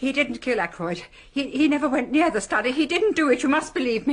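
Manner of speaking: a frightened mother insisting her son is innocent; desperate pleading. Acted. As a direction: beg him to believe you, rising in panic.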